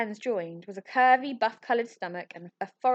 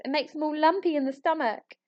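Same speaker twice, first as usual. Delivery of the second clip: high, louder tearful wail; 8 semitones higher, 4 dB louder than usual. Acted. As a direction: keep wailing, voice pitched high. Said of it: "wailed Ambrose".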